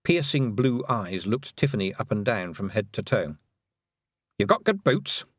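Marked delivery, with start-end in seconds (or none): 4.4-5.3 put-on high, terse old witch; stern old witch. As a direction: judge her with a glance.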